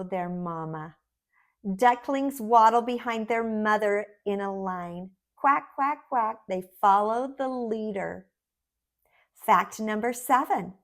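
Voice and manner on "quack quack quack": cheerful duck quack. Shown as a demonstration. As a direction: quack like a duckling for kids.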